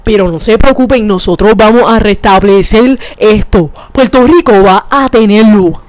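a hint of a press-conference politician; mock official announcement. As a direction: play the smug official calming everyone down. Mock official reassuring the island.

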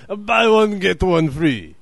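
high loud sales pitch; hammed-up special-offer call; salesman pitch. The waiter selling a deal, loud mock pitch. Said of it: "sells it to you by going".

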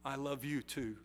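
put-on little boy whispering back to Stevenson, soft. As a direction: barely breathe it into his ear. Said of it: "whispered flawlessly in his ear".

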